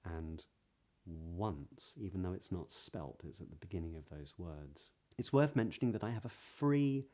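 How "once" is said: "once" opening on a rounded W, as wunce; rounded W onset. Shown as a demonstration. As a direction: round the lips into a W before "once". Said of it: "and also words like".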